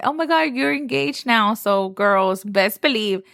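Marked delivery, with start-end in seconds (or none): 0.0-1.5 high squealy congratulation; excited guest. Retold or imitated. Guest realizing the couple is engaged, high excited voice. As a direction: gush at the newly engaged couple.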